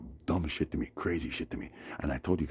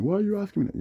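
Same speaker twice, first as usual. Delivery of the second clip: high, loud mock snap; imitated defensive retort; 6 dB louder, faster than usual. Man on bus snaps back.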